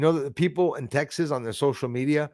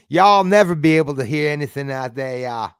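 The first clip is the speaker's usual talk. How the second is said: a loose, hammed-up Texan accent, louder; bad Texan imitation; 5 dB louder than usual. Streamer mocking Texan friends' accent, bad Texan imitation. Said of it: "very bad imitation of a Texan".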